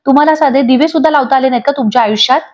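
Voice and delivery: lightly voiced mock scolding wife; child teasingly mimics a nagging aunt; imitating Manini. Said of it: "मानिनीची acting करायला लागते".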